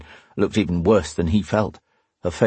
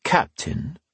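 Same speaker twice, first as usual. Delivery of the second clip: calm; 8 semitones higher, 3 dB quieter than usual. A narrator's reading. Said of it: "Phelan Parr said calmly".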